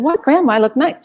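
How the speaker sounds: put-on high, protesting young girl; girl defending her dance to grandma, high and indignant. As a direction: whine back at grandma in surprise.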